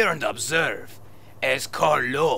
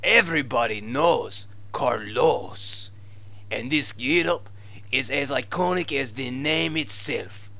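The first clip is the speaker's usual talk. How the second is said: fake Spanish accent. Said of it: "your fake Spanish accent".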